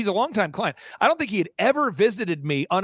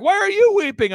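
loud, very high mock-tearful shout; mimicked emotional outcry; 12 semitones higher, 5 dB louder than usual. Imitating the weeping client turning the question back, shouted high. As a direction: throw the question back, higher and louder. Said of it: "He's like".

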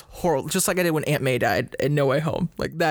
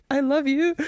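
high-pitched, lightly hammed-up adoration; put-on high, sappy confession; mock lovestruck; 10 semitones higher than usual. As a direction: turn to your partner, playfully smitten. Acts out lovestruck viewer to girlfriend.

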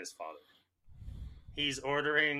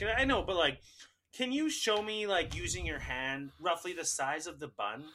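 mock high-voiced customer making a needless request; fussy customer; 7 semitones higher, 3 dB louder than usual. Customer asking worker about the bun size, fussy high imitation.

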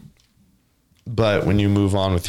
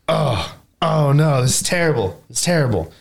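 mock townsfolk wailing; 5 semitones higher than usual. Storyteller voicing panicked townsfolk, mock wailing. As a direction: ham up the villagers' dismay.

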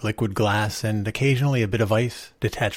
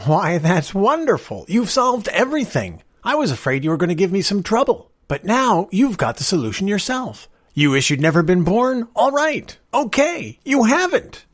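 delighted stranger, much higher and louder; bubbling over with glee; excited; 11 semitones higher, 5 dB louder than usual. A narrator's reading. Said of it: "glowed with excitement".

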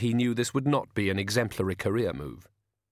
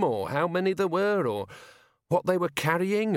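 higher voice with anxious little laughs; nervous burbling; 6 semitones higher than usual. A narrator's reading. Frightened driver swears he remembers nothing, burbling ever higher. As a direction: babble desperately, climbing higher as you go. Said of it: "his voice was a high-pitched wheeze".

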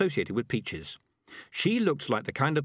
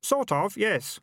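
put-on higher, lighter young boy voice; boy's voice; 11 semitones higher, slower than usual. A narrator's reading. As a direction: voice the kid a touch higher. Kid character voice.

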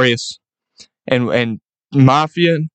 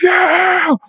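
crowd cheer. Retold or imitated. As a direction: cheer like the whole stadium. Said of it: "And they're like".

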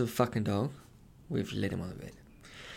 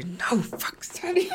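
hushing whisper; 10 semitones higher, slower than usual. Retold or imitated. Hushing the dog on the walk.

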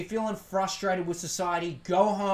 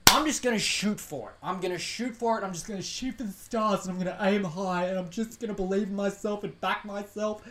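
mock self-help talk. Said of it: "whatever those, you know, fucking white from the eastern suburbs say".

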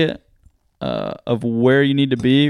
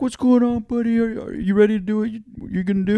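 upbeat announcer; 9 semitones higher, faster than usual. Retold or imitated. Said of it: "He's like".

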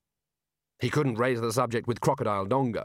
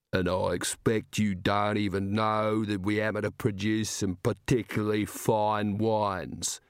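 enormous slow giant rumble; slower than usual. Acted. Giant's wine speech.

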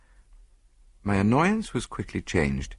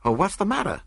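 startled doctor; 13 semitones higher than usual. A narrator's reading. Doctor roused by alarm.

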